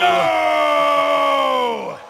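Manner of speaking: loud high cry of defeat; anguished shout. Acted. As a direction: scream at the loss. Losing the duel.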